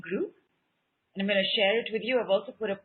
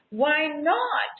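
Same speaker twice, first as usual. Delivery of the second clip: commanding decree; 4 semitones higher than usual. Shown as a demonstration. Teacher demonstrating the decree to the class, commanding. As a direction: proclaim it as an order. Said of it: "The command for Uranus's decree is".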